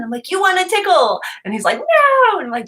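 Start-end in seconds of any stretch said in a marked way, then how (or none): 0.3-1.2 high, sing-out teasing offer; playful tease. Retold or imitated. Mom to her son who won the game, playfully teasing. 1.8-2.4 put-on very high, loud kid's "no"; playful protest. Son refusing his mom's tickle, high mock protest.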